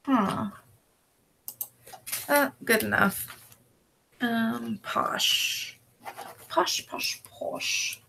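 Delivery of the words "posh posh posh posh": whispered name. Real, not acted.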